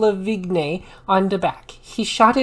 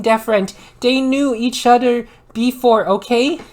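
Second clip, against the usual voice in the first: annoyed rant; 4 semitones higher, 5 dB louder than usual. Acted. Author's note rant at flamers.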